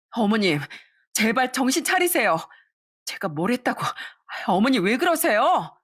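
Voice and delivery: high, defensive and falsely soothing; protesting daughter-in-law. Acted. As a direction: push back while pretending to calm her. (시어머니를 말리는 척하는 며느리의 높은 목소리)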